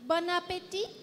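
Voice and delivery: "Bon appétit?" lifted at the end to invite the class to repeat; teacher cueing students; prompting repeat. Shown as a demonstration. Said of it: "Can we try to repeat that?".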